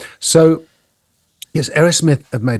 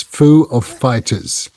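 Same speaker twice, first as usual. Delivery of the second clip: imitating Walken; much slower than usual. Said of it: "he said to a rock musician".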